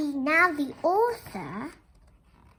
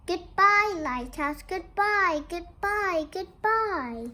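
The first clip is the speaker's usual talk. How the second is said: calling goodbye; 3 semitones higher than usual. Acted. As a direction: wave and call goodbye across the water. Family waves farewell to lighthouse.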